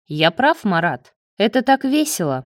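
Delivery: a smirking, quickening gibe; enjoy his discomfort, smugly. Acted. Marat gloats to Leo, smirking and amused. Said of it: "ответил тот с усмешкой".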